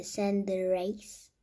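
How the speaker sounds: slow, careful go at the English name Cenderace; trying an English accent on Cenderace. Real, not acted. Kid tries an English accent on the card name. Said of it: "Mon accent anglais est dégueulasse".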